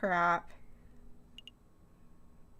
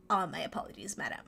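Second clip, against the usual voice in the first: lightly voiced apologetic servant; a hint of a deferential character voice; recalled character voice; 4 semitones lower, 3 dB quieter than usual. Player trying out a character's voice for madam, lightly acted. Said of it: "that's what the voice was".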